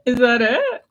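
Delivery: throaty gargled French R in Is that it; French R attempt. Shown as a demonstration. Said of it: "You're gargling mouthwash".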